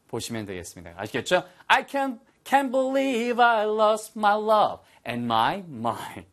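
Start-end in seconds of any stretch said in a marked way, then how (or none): 1.7-6.3 stammering, higher, very slow; stunned regret. Shown as a demonstration. Teacher acts heartbroken line.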